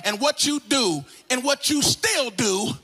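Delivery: emphatic, driving sermon rebuke; insistent preacher in full flow; full-force preaching. Real, not acted. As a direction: preach it straight at them, leaning on key words. Preaches at the congregation.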